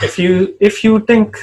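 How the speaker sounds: high-pitched attempt at a Hong Kong accent; tentative high Hong Kong accent. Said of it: "for doing a Hong Kong accent".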